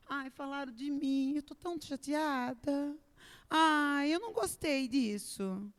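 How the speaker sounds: whiny complaint. Retold or imitated. Mocking a whiny believer.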